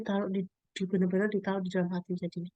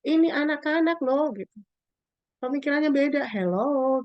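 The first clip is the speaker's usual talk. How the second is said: exasperated; 5 semitones higher, 3 dB louder than usual. Retold or imitated. Others telling her off.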